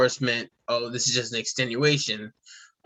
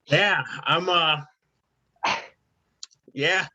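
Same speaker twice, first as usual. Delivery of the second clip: slow, teary, spaced-out voice; drowsy stoned drawl, eyes watering; high and teary; 2 semitones higher, slower than usual. Real, not acted. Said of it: "You're awfully calm and wiping your eyes".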